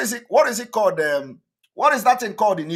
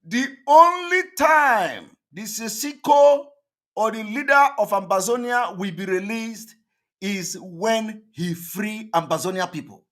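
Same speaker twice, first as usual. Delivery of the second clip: mock shout. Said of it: "Did you hear that?".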